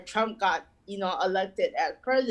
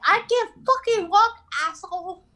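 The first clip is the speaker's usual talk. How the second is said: mock angry retort; 9 semitones higher than usual. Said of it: "I'm like".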